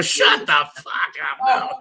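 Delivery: slow, loud shout of disbelief; mock disbelief. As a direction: blurt it out in shock. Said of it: "I go".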